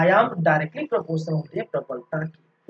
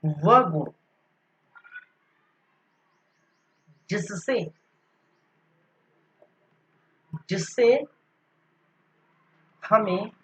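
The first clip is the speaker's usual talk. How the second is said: dictating notes. Shown as a demonstration. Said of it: "इसको हम क्या लिख सकते हैं".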